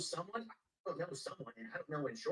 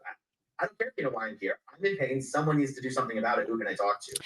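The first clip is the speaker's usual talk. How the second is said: insistent shouting; 9 dB louder than usual. Retold or imitated. Retold demand to the officer.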